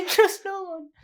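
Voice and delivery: high, slow, hammed-up echo; dramatic echo. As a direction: drag it out in a silly high voice. Echoing friend's line, laughing.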